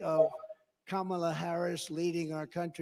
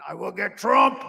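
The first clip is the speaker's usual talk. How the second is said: a light mocking vow, louder; mock campaign slogan; 2 semitones higher, 9 dB louder than usual. Mocking Letitia James's pledge, lightly voiced and louder. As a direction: tease her slogan. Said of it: "She campaigned on".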